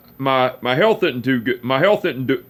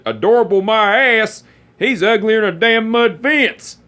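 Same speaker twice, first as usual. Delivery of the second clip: mock-grumpy uncle; 8 semitones higher than usual. Uncle teasing girlfriend about nephew, hammed-up scorn. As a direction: ham up a cranky old uncle's insult.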